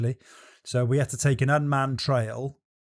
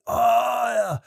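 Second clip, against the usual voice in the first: higher-pitched imitation of an eager yes; retold delight; 8 semitones higher, slower than usual. French mum offered whisky to share, mock delighted. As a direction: play up her delighted acceptance.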